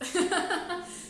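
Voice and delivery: short loud real laugh; burst of laughter. Real, not acted. Lecturer laughing at her own mix-up, a loud real laugh. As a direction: laugh out at your own slip.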